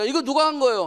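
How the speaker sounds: ordinary talk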